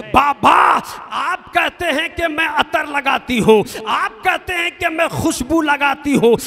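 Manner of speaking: preacher voicing a solemn oath; impassioned preaching. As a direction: swear it out before the crowd. Preacher delivers Aamna's oath.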